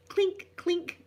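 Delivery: high-pitched clink, clink; clinking cutlery imitation. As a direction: mimic cutlery clinking into a bag. Imitating cutlery going into bag.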